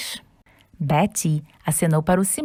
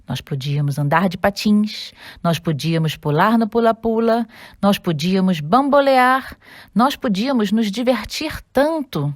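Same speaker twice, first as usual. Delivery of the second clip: sad; 2 semitones higher than usual. Acted. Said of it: "disse o Simão tristemente".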